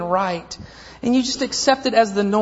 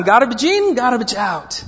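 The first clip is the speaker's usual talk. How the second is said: put-on Italian accent. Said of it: "has an incredibly beautiful Italian thick accent".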